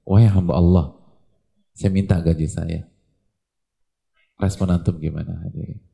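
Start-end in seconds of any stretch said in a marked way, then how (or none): 0.0-2.8 worker asking again. Retold or imitated. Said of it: "Ngomongnya begitu lagi".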